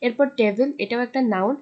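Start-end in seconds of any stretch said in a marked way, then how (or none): 0.4-0.7 টেবিল with pressure on the opening "TE"; টেবিল, front syllable stressed; stress on first syllable. Shown as a demonstration. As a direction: push the TE in টেবিল, just set down the rest. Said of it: "টি এর উপর pressure দিয়ে".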